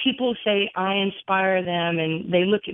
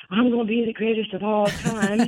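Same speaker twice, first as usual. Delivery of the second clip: mildly voiced Ali-style boast; Muhammad Ali swagger; 2 semitones higher than usual. Ten-year-old copying her TV hero to her mom, mildly boastful. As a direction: lightly imitate a champion's brag. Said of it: "Why are you talking like that?".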